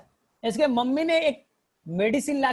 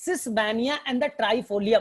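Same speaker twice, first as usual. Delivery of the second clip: slowly again, each word separate; slow dictation repeat; much slower than usual. Shown as a demonstration. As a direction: drill the name into memory. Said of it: "teacher repeats names to memorise".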